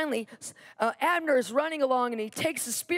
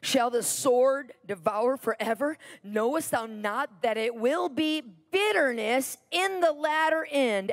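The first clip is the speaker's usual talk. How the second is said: raised-voice scripture quote, drawn out; retold yell. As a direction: declaim it like a mild shout. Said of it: "he yells down to Joab".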